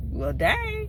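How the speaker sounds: a high, squeaky well dang; high-pitched stunned reaction; mock surprise. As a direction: caught off guard by the cussing out. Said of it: "I'm like".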